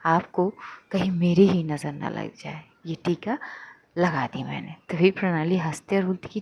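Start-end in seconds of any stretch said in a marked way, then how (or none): 0.1-4.8 tender hush. Acted. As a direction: lovingly murmur it close to her. Tenderly applies protective kajal mark.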